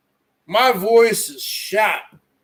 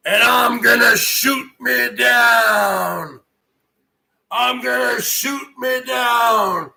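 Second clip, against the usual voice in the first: Manitoba Moose Hunter. Acted. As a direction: bellow it like a boastful moose hunter. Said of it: "I used to have a character called the Manitoba Moose Hunter".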